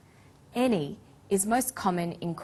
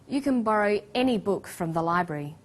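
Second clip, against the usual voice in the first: "any" stressed to mean whichever you like. Shown as a demonstration. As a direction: hit "any" so the choice sounds unlimited. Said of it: "When the word any is stressed".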